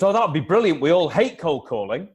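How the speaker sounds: mock-enthusiastic client saying it would be brilliant; excited client. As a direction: mimic a gushing, thrilled client. Client's delighted reply, retold.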